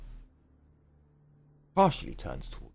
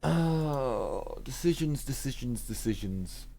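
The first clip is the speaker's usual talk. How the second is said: mock dramatic sigh; 4 semitones higher, slower than usual. Real, not acted. Mock pondering, fading.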